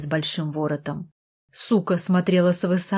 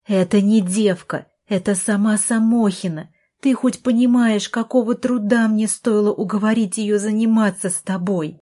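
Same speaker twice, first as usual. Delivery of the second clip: heated, higher-pitched protest; exasperated retort; 3 semitones higher, 4 dB louder than usual. Acted. Sister scolds brother about the specialist she persuaded, exasperated. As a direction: push back hard, voice raised. Sister argues back in quarrel.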